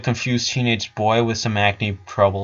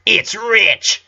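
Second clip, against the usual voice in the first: sister's voice; 9 semitones higher than usual. A narrator's reading.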